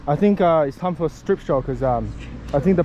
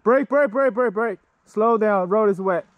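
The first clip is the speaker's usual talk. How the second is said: calling out; 3 semitones higher than usual. Real, not acted. Calling warning to a rider.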